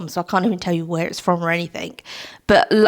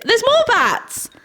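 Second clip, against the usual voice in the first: much higher, slow excited squeal; delighted surprise; 13 semitones higher, slower than usual. Real, not acted. Discovering more bats on her old mug, delighted squeal. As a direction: gasp it out as you spot something new.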